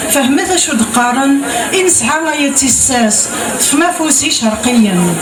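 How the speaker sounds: measured verse delivery, line by line; recited poem with cadenced line endings; poetry recitation. Acted. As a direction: declaim the poem, pausing after each line. Recites verse after chatting.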